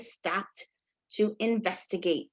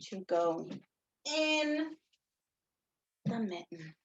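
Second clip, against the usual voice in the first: whisper; 5 semitones lower, 8 dB quieter than usual. Acted. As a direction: draw it out in a whisper.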